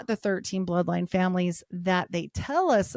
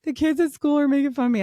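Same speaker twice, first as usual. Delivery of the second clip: imitating daughter; 6 semitones higher, 5 dB louder than usual. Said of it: "She's like".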